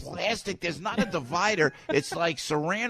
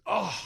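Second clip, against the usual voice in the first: imitated grunt; 6 semitones higher than usual. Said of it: "he goes".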